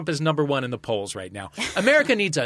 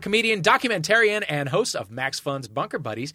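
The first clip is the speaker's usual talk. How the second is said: announcer; 5 semitones higher than usual. Acted. Host introduces contestants.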